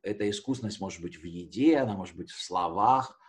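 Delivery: ordinary talk, nothing marked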